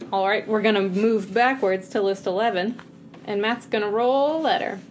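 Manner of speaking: lightly put-on hosting voice; a touch of meeting-leader polish; fancy voice. Real, not acted. Co-host moves the game to the next list, fancy voice. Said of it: "in her fancy voice today".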